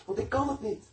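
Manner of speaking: high, straining plea of helplessness; retold desperate prayer. Preacher retelling his own prayer to God, high desperate plea. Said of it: "zei ik tegen God".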